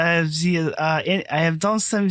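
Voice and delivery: slipping into an accidental German accent; speech that comes out sounding German. Real, not acted. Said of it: "You sounded German".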